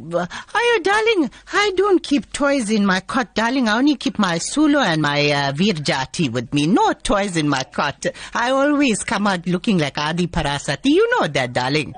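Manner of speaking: man playing a doting Durban auntie; sweet-talking aunty character voice; Auntie Sheila voice. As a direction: male comic in a female auntie voice. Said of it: "you change into a female voice".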